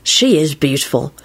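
mildly dreamy admiration; lightly lovestruck reverie. A narrator's reading. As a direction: drift off thinking of a beloved. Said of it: "Lupin replied dreamily".

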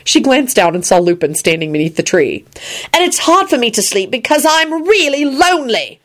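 exasperated high-pitched whine; cross. A narrator's reading. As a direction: complain crossly in a high, slowed voice. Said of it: "she said crossly".

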